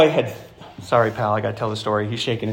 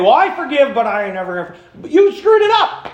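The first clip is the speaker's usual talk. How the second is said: higher, sarcastic grudge voice; mock grudging forgiveness; 8 semitones higher, 4 dB louder than usual. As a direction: play the grudge-holder mockingly.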